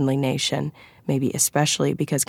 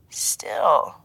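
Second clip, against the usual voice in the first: mildly offered needling aside; mild comment; 3 dB quieter than usual. A narrator's reading. Colleague needling agent over the phone, mildly. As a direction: drop it in mildly. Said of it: "Arun commented mildly".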